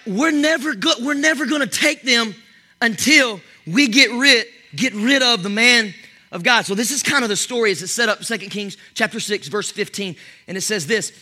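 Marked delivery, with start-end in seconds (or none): 0.1-6.7 enemy plotters. Acted. Enemies plotting, voiced by preacher.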